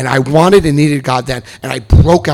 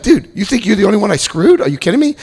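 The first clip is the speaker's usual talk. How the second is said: mock scoff; 8 semitones higher than usual. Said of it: "I'm like".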